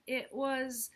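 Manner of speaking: high, bright excitable hippo; eager hippo voice. Acted. Hippo's lines in story.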